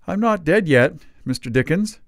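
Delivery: feeble smile. A narrator's reading. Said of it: "with a feeble smile".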